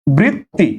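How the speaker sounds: বৃত্তি split as "brit... ti"; pronunciation model. Shown as a demonstration. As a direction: say বৃত্তি in two separated syllables. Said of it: "তাহলে বৃত্তি কি হবে?".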